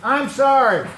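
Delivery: sincere apology to the man beside you; earnest apology. Shown as a demonstration. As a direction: say it and mean it. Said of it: "do it and mean it".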